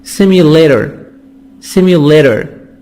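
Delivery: "simulator" with the T as a soft D. Shown as a demonstration. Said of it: "T soft D".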